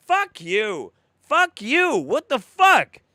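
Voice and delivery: loud, high outraged outburst; angry cursing. Real, not acted.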